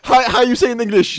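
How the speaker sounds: put-on thick Russian accent. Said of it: "like, a really thick accent".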